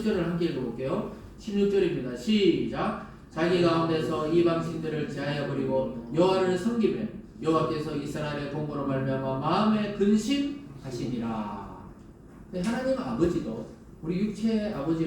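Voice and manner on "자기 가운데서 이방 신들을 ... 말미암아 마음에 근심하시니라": scripture reading. Acted. Preacher leading the church in reading verse sixteen, steady. Congregation reads verse together.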